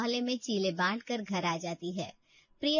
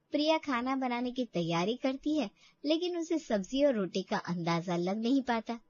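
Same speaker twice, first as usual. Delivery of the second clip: story narration. A narrator's reading. Narrator telling the audience about Priya, calm story voice. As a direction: tell the story evenly to the listener.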